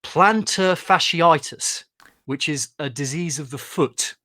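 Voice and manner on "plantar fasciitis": slow, drawn-out Geordie "plantar fasciitis"; Geordie accent. Shown as a demonstration. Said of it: "best word to say in a Geordie accent".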